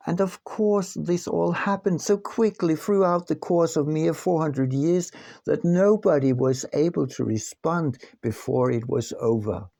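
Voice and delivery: sarcastic aside about four hundred years. Real, not acted. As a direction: lay the irony on thick, mock-matter-of-fact. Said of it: "Sorry for the sarcasm".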